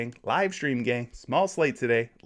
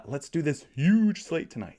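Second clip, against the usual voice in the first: sarcastic; 3 semitones higher than usual. Retold or imitated. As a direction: read it with mock hype on "huge".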